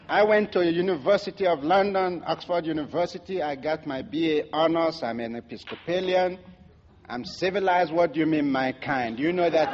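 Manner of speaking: lightly imitated Oxford accent, full of self-importance; mock Oxford accent. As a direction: put on an affronted Oxford-educated accent. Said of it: "with his British, uh, Oxford accent".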